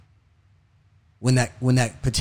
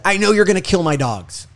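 higher-pitched retelling of a yelled rant; partly raised voice, quoting someone yelling; imitated yelling; 7 semitones higher, 4 dB louder than usual. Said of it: "In all his yelling".

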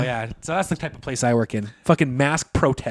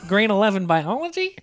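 higher, playful tough-guy voice; gangster impression; 6 semitones higher than usual. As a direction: sneer it like a movie mobster. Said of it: "you're doing it. You're not doing it properly".

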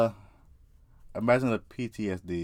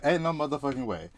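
acted-out shocked protest; retold disbelief; 5 semitones higher than usual. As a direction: blurt it out high in disbelief.

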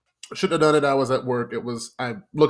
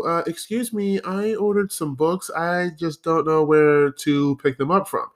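higher, lightly voiced woman asking for help; imitating woman customer; 4 semitones higher than usual. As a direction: mimic a polite female customer, pitched up. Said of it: "I just hear this woman go".

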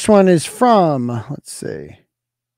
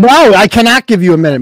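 raised, impatient voice; irritated refusal; 2 semitones higher, 4 dB louder than usual. Real, not acted. Host refusing the caller more time, irritated. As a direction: cut the caller off with annoyance.

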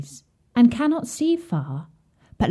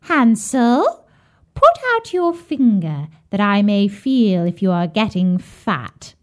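calling out. Acted. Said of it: "hobbled out to the stable and cried".

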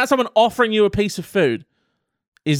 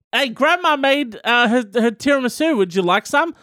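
higher offering voice; mock pushy mum; 6 semitones higher than usual. Mum pushing Grandma's tiramisu, higher voice.

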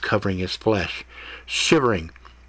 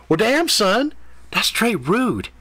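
much higher sassy cat voice; offended cat; 11 semitones higher, slower than usual. A narrator's reading. Cat scolding Ethan for his rude question, high and sassy. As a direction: sass him like an offended diva.

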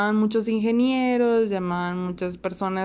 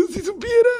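ironic aside; 12 semitones higher, 4 dB louder than usual. Retold or imitated. Amused aside about her voice.

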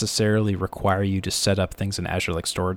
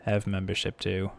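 softer mock snob voice; fancy club snob; 4 dB quieter than usual. Co-host disowning the fancy club, mock snobbery. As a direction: put on country club airs quietly. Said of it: "if we kept talking like this".

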